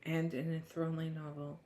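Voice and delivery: measured book-blurb reading voice. Acted. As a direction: read it like back-cover copy. Reads the book blurb aloud.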